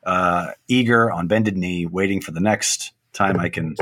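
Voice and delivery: slow, low movie-trailer narrator; a hint of epic narrator; Transformers narrator voice. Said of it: "Doing the Transformers narrator voice".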